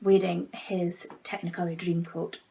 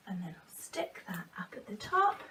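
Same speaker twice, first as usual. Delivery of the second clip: whispered aside; 5 dB quieter than usual. Real, not acted. Aside while sticking craft.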